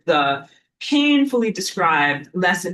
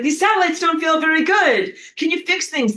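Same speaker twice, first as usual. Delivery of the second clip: mock pleading; 10 semitones higher, 4 dB louder than usual.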